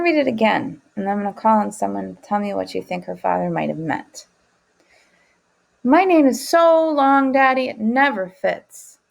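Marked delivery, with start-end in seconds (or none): 5.9-9.0 put-on higher, louder, slower, a little girl whining to Daddy; child complaining. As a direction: plead like a small girl whose name is too long. Alma complains to father.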